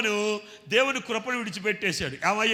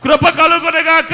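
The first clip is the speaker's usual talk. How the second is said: loud, high cry of grace; shouted acclamation; 7 semitones higher, 13 dB louder than usual. Retold or imitated. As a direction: cry it out like the crowd. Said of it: "ఏమని కేకేశారు". (ప్రజల పెద్ద కేకలా)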